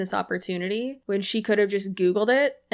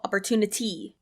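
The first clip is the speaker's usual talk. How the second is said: Opportunity with the stress put on the wrong syllable; mocking wrong stress; 3 dB quieter than usual. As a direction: parrot the odd stress in Opportunity, lightly mocking. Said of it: "wrong emphasis on the wrong syllable".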